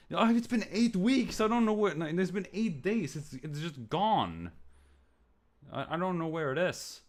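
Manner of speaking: high, whiny imitation of his own flustered excuse; mocking himself in a high whiny voice; whiny mock self. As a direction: squeak it out like a panicked kid.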